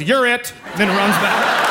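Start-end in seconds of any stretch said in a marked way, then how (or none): 0.0-0.5 laughing, shouted tag; gleeful kid shout. Retold or imitated. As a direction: yell it like a kid who just won. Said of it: "runs over and goes".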